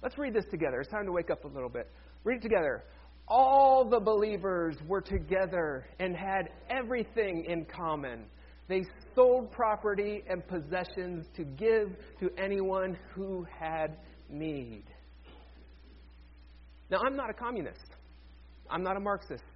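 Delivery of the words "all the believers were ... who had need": slow, measured group reading; deliberate phrases, stretched out and settling at the end; scripture reading. Real, not acted. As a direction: lead a congregation reading aloud in unison. Leads congregation reading scripture aloud.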